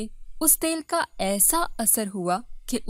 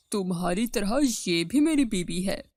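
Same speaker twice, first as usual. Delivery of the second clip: lower-pitched husband voice; matter-of-fact husband; 4 semitones lower than usual. Acted. Husband presenting his second wife to his first, matter-of-fact. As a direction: break it to her in a low voice.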